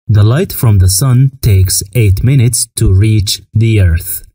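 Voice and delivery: very slow, careful English; slow teaching read. Shown as a demonstration. Teacher reading the sunlight fact slowly to the class. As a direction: let every word land for learners. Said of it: "teacher models English sentence".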